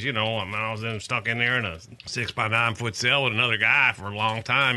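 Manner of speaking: lightly imitated Virginia accent; a hint of Virginia in the voice; Keith Allen Harward's Virginia accent. Exoneree describing his cell, imitated Virginia accent. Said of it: "I can do his accent pretty well".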